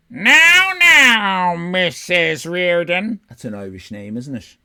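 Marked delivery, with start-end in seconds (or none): 0.1-3.2 slow, high, loud soothing detective; calm her down like a gruff detective. Acted. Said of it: "how the detective's voice turned out".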